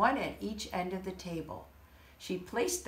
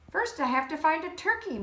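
louder, fast hollered reply; hollering; 9 semitones higher, 5 dB louder, faster than usual. Acted. Mister Moose hollering back to Sheep, louder. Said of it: "Mister Moose hollered".

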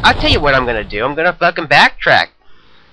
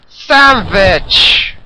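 silly shouted name; 5 semitones higher, 5 dB louder than usual. Pretend. Greeting an enemy in a funny voice.

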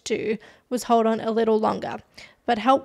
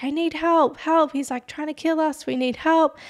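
higher-pitched mock cry for help; urgent retold plea, raised in pitch but not screamed; imitated screaming; 5 semitones higher than usual. Bree screaming to the operator for help, imitated mild scream. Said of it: "Bree starts screaming into the phone".

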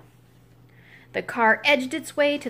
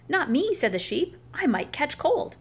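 sheep's voice; 4 semitones higher than usual. Acted. Sheep refusing to push.

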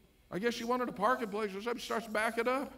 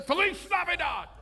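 mock Spanish accent; 8 semitones higher, 4 dB louder than usual. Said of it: "I've gotten cultural".

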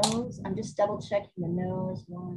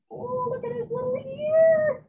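very high, drawn-out coo; 3 dB louder than usual. Real, not acted. Painter gushing over her animal's little ear, high cooing. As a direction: squeal it slowly, smitten with something tiny.

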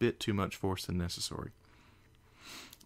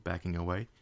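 usual speaking voice

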